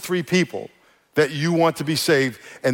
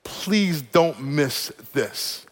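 slow earnest plea; much slower than usual. Real, not acted. Pastor begging the church not to miss this, slow and earnest. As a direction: lean in and plead gently.

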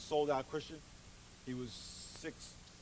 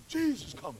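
raspy Big Dog voice; 7 semitones higher, 5 dB louder than usual. Retold or imitated. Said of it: "he had a real raspy voice like that".

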